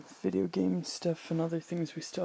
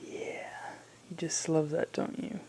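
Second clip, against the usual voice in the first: soft breathy whisper to a pet; whispering to cat; 10 dB quieter than usual. Real, not acted. Softly cooing to the cat.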